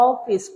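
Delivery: অফিস slowed, with the open "aw" held clearly; vowel kept clear. Shown as a demonstration. Teacher showing the vowel stays intact, slow "aw-fis" for অফিস. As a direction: separate the "aw" at the start of অফিস. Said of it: "অটা ঠিক থাকে".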